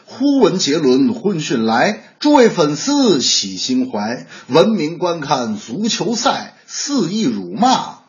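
slow, measured recital of a rhyme; storyteller's closing verse. Acted. Host summing up both topics in verse, slow recital. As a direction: draw out each line like a comic's sign-off poem.

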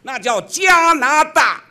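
加拿大 with 拿 punched high and loud, slowly; stress on 拿. Acted. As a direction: hit the middle syllable of 加拿大 hard. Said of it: "这逻辑重音问题".

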